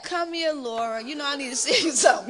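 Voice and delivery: soft, coaxing husband's call; soft and quick; sweet tone. Shown as a demonstration. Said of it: "But if he said".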